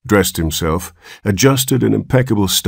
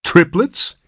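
alarmed guess; 12 semitones higher than usual. Acted.

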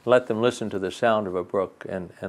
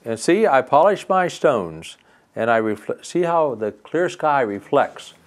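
high, slower cheerful brook voice; 3 semitones higher than usual. Acted. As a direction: sing it out like a happy brook. Brook shows off to fairy.

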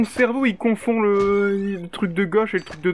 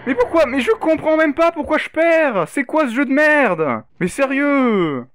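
raging gamer; 6 semitones higher, 4 dB louder than usual. Real, not acted. Gamer losing, insulting the game.

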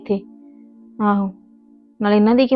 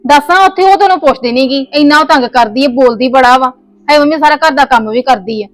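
heated; 3 semitones higher than usual. Acted. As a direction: argue her mother's case hard. Arguing with husband over mother.

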